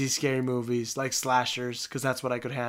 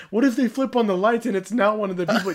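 nervous, higher voice from inside your own head in the dark; remembered fear, half-joking; imitated fear; 6 semitones higher, 4 dB louder than usual. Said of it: "'cause you're like".

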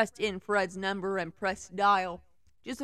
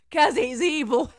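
mock dramatic; 6 semitones higher, 8 dB louder, slower than usual. Mocking the fanfic villain.

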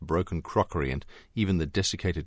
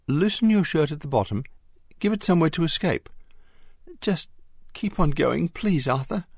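higher, quick reassuring coax; 11 semitones higher, 4 dB louder than usual. A narrator's reading. Mary coaxing the scared Arthur to keep going, reassuring. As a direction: talk him through it gently but urgently. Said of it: "coaxed Mary, her muffled voice drenched with reassurance".

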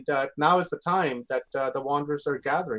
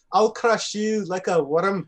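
quoting a villain; 3 semitones higher, slower than usual. Retold or imitated. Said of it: "what Image said".

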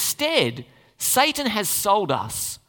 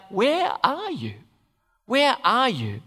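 slow, high call "Where are you?"; God calling out; 4 semitones higher, slower than usual. Retold or imitated. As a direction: call out like a searching father. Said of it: "God calls out".

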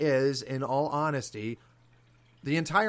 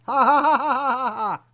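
loud high ha-ha-ha cackle; mocking laugh; 12 semitones higher, 10 dB louder than usual. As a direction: burst into a mocking fake laugh. Mock laugh after impression.

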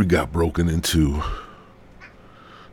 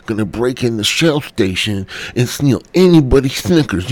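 hammed-up Mike Tyson-ish teen, building up; imitating Kyle; 4 semitones higher than usual. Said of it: "He's like".

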